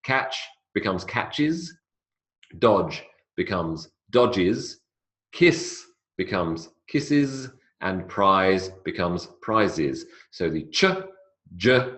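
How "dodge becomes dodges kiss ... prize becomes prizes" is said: slow, "judges", "splices", "gazes" with a clear iz ending; slow teaching demo. Shown as a demonstration. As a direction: draw out the extra syllable. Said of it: "Here's some more examples".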